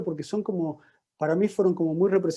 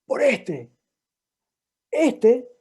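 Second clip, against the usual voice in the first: este spat out higher and louder; angry teen; 7 semitones higher, 3 dB louder, much slower than usual. Retold or imitated. Teen pointing at his father in the session, angrily. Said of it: "Estaba enojado, enojado".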